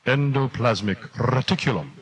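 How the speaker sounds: grandly enunciated, like an expert; pompous pronouncement. Shown as a demonstration. Student impressing parents, mock-grand pronouncement. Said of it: "Clear your throat and pronounce".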